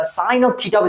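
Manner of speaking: "sine of theta" with OF linking the words; correct pronunciation. Shown as a demonstration. Teacher gives students the right reading, "sine of theta" with OF. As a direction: read "sine of theta" with OF, as one phrase. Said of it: "ये इसका pronunciation करने का ये तरीका".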